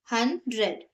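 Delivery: "हंड्रेड" broken after हं; split into syllables. Shown as a demonstration. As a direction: say हंड्रेड in two parts, हं, ड्रेड. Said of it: "divide करेंगे".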